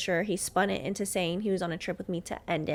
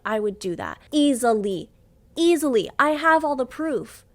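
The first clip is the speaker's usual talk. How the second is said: louder, heated tirade; angry rant; 3 semitones higher, 4 dB louder than usual. Real, not acted. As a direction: let him have it, voice raised.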